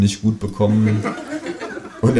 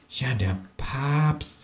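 hushed, slow, much softer; quiet; 5 semitones higher, 8 dB quieter, much slower than usual. A narrator's reading. Kangaroo quietly and ominously names the pope. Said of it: "sagt das Känguru leise".

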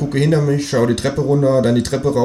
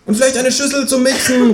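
much higher kangaroo voice calling out; kangaroo calling after. Acted. Kangaroo calling after the narrator, much higher. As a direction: call it after him as the kangaroo. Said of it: "ruft mir das Känguru hinterher".

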